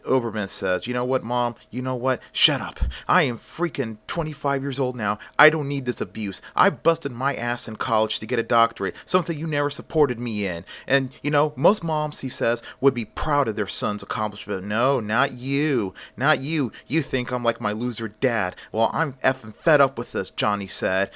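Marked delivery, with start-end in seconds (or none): 0.9-12.2 mildly heated acted retort; a son fed up with his mom, a touch of anger; mad. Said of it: "He was so mad". 12.8-20.3 mildly heated acted rant; fed-up son venting, anger understated; mad. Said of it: "He was so mad".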